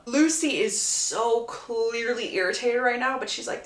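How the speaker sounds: normal talking voice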